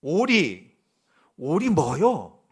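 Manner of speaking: loud, challenging retort; slow, loud "오리 뭐요?" dare; defiant shout. Acted. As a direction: throw it back at her, unafraid. Forgiven boy defies the maid.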